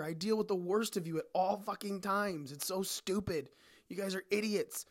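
fed-up bartender venting; ranting. Real, not acted. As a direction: vent at the customers. Bartender rant about customers.

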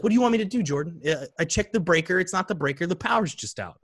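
mom's exasperated reply. Retold or imitated. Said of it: "she's like".

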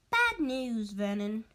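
hint of a flustered housewife; Aunt Petunia's voice. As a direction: announce the bad news like a flustered aunt. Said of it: "she said".

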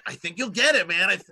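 giggling high through the words; laughing. Retold or imitated. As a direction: laugh it out, bursting with glee. Excited retort to brother.

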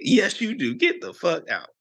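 high, then dropping to firm; retold dismissal of mild heat; mock anger. Boyfriend throwing girlfriend out, mock anger. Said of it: "I was so mad".

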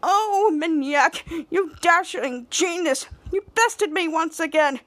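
high, slow, put-on weepy voice; mock crying. Villain imitates Captain Man after defeat, mock crying. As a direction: imitate a beaten hero's weepy praise. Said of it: "he often cries after I defeat him".

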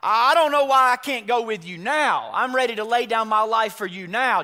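loud, high, impassioned objection; Peter's wounded protest. Acted. Disciple taking it to heart, protesting loudly to his Lord. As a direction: protest forcefully, stumbling into the vow. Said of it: "takes that to heart".

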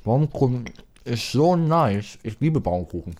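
talking through a mouthful of cake; words round a bite of Baumkuchen; mouth full. Real, not acted. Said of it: "ich beiß mal ab".

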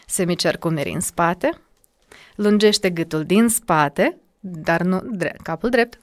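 calm guiding voice; coaching instructions. Shown as a demonstration. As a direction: coach walking a student through posture. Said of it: "leads a posture exercise".

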